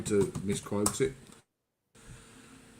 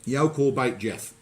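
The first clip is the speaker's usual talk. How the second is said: "You call bait Jeff" in Black Country, slowed down and a bit louder, each word spelled out by ear; slower, louder Black Country repeat; 2 semitones higher, 5 dB louder, slower than usual. Shown as a demonstration. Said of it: "I'm sorry?".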